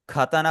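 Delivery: खाताना with an aspirated kh at the start; खाताना, word-first kh aspirated; initial kh. Shown as a demonstration. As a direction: open खाताना with a breathy kh. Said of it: "शुरू में, खा की आवाज".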